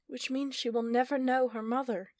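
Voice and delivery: queen's voice, a touch of sorrow; sadness. Acted. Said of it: "a hint of sadness in her voice".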